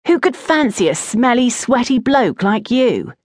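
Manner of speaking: high-pitched schoolboy ribbing; teasing jibe. A narrator's reading. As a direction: rib your friend with lightly acted disbelief. Thorn ribs Vander about admirer.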